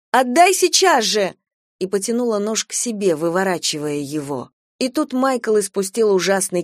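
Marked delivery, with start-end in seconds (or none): 0.1-1.3 high, loud command; loud demand. A narrator's reading. Sister orders brother to give the knife, loud. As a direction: insist he hand it over now. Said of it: "крикнула я".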